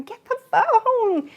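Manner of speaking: high, slow, furious scream at her sister; angry yell. Retold or imitated. Teen yelling at sister to answer the phone, angry and loud. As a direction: stretch it out and yell it across the house. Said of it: "and I was screaming".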